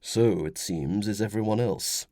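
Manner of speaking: grumbling. Acted. Husband complains about gossip, grumbling. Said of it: "grumbled Vespasian".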